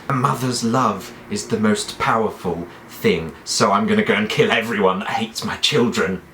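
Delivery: lightly voiced crazed queen; understated menace from a doting mother; measured, mildly unhinged declaration; Cersei. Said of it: "she's really crazy".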